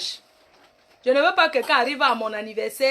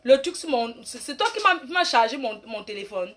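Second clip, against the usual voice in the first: angry rant; 3 semitones higher than usual. Real, not acted. Answering a man who mocked her French, fast angry rant. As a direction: tear into him, higher and faster.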